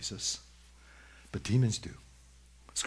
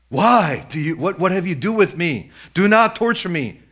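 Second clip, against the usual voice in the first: high, loud protest; acted, forceful outcry; demon crying out; 8 semitones higher, 12 dB louder than usual. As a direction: plead at full voice as the demon. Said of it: "This is the demon speaking to Jesus".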